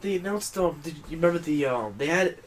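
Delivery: halting, repeating words; stuttering. Real, not acted. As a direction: stumble over the words. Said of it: "sorry about my stuttering".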